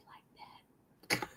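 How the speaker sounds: unvoiced whispered aside. Shown as a demonstration. Whispering how the girls gossiped. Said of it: "whispered demo again".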